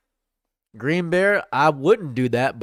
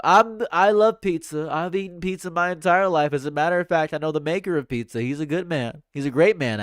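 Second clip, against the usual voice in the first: boastful, rambling politician impression; Donald Trump; 3 semitones higher than usual. Streamer answers a pizza question as Trump, rambling mock-boastful impression. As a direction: pile one emphatic boast onto the next. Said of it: "Trump, how do you feel about pizza?".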